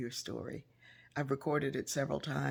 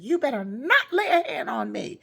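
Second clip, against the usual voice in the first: higher, louder, stern threat; imitating an indignant godmother, louder and higher; stern warning; 10 semitones higher, 11 dB louder than usual. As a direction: warn them off firmly. Godmother warns the congregation.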